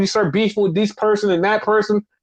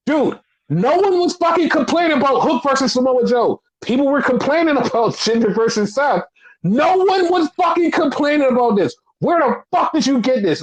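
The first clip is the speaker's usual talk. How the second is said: imitating an incredulous commentator, higher pitched; exasperated quote; 5 semitones higher than usual. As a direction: retell an indignant on-air rant. Voices commentator's exasperated on-air reaction.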